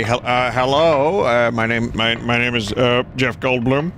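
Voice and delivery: Jeff Goldblum impression. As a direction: stretch it out with hesitant uhs. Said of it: "my shitty Jeff Goldblum impression".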